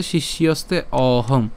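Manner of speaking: "শিষ্যস্তে অহং" slowly, with a long o opening "অহং"; careful teacher's "শিষ্যস্তে অহং"; joined pronunciation. Shown as a demonstration. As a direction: run shishyoste into a drawn-out o-hong in "শিষ্যস্তে অহং". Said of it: "পরবর্তী হটা মিলে একসাথে".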